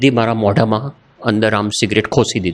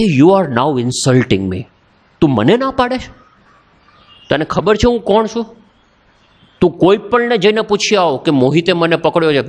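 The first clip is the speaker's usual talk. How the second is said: mock indignation, pitch climbing after the first phrase; suddenly angry; 4 semitones higher than usual. Senior insulted by a junior's refusal, retold anger. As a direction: imitate an affronted senior without shouting. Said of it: "પછી એકદમ ગુસ્સે થયો".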